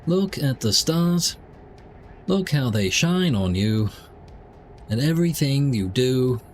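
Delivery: lyrics read as a news bulletin; newsreader style. Pretend. Streamer reads a band's lyrics as a newsreader, handing back to John. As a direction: deliver the lyric like an evening news anchor. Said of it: "in the style of news".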